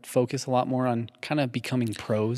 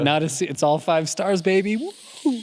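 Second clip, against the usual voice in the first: louder, rising gleeful boast; excited brag; 3 semitones higher, 4 dB louder than usual. Real, not acted. Cohost bragging to listeners about five stars, gleeful. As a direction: crow about the perfect reviews.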